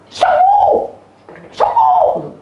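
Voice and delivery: piercingly high, loud cry; child shouting prayer. Retold or imitated. Child commands the sickness to heal, shouting. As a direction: mimic a child yelling for healing. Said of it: "teriak-teriak gitu".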